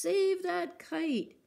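high, loud, slow urgent call; shouting. Acted. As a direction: yell it as the kite falls. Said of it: "shouted Mole".

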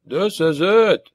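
high, slow dwarf wheeze; gleeful wheezing dwarf; wheezy and grinning. A narrator's reading. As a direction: wheeze it out with a grin. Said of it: "wheezed Rodrin, grinning".

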